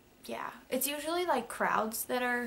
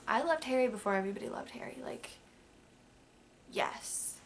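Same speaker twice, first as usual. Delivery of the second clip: secretive whisper. Real, not acted. Confiding her fandom of a pop singer.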